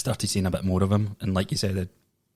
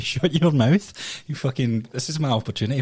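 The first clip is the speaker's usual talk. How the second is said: mock shout; 5 semitones higher than usual. Retold comeback to the examiner.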